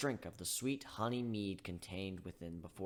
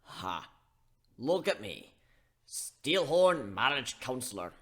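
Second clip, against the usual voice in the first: gruff chuckle; 5 dB louder, slower than usual. Acted. Steelhorn laughs at himself.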